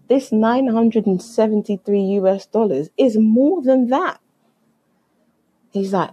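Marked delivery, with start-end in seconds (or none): 0.1-4.2 higher, rising retold outrage; indignant. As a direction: build in disbelief to the last word. Indignant at ticket price.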